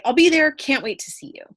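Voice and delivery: light, informal eagerness, a little lifted; casual, friendly. Shown as a demonstration. Teacher reading a casual email to a friend, informal. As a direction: say it as if to an old friend. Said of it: "More casual".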